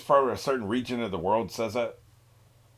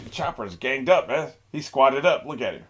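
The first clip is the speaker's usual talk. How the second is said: ordinary talk, nothing marked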